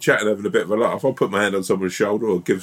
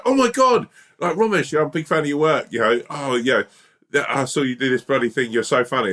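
gushing fan; 3 semitones higher than usual. Retold or imitated. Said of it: "They come up and they go".

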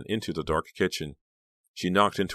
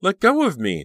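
high, loud angry demand; 8 dB louder than usual. A narrator's reading. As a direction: order her off, voice raised high. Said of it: "Danielle demanded".

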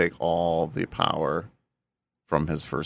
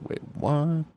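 surprised; 10 semitones higher than usual. Retold or imitated. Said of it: "I was like".

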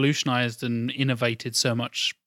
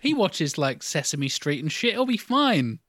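higher, lightly voiced carefree parents; breezy parents; 4 semitones higher than usual. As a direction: brush off the worry like unbothered parents. Parents voiced, dismissing worries.

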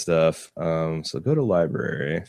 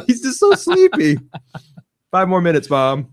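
put-on sleepy kid voice; 10 semitones higher, 5 dB louder than usual. Avatar sleepy, eyes shut.

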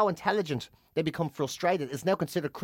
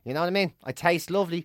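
indifferent pig; 5 semitones lower than usual. Acted. Pig shrugging off its owner's return, indifferent. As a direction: play a pig who couldn't care less. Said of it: "a pig would just be like".

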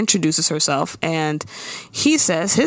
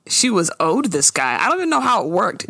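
ordinary talk

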